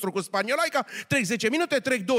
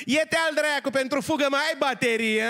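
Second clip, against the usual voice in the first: Moldovan woman; 5 semitones higher than usual. Acted. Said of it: "la care moldoveanca".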